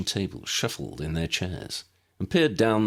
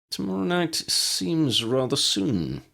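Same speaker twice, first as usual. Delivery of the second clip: opining; 11 semitones higher, slower than usual. A narrator's reading. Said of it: "Ambrose opined".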